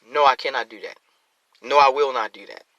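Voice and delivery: steady, firm no; firm refusal. Shown as a demonstration. Showing the congregation how to refuse, firmly. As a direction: plant your feet and refuse. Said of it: "make a public stance to disagree".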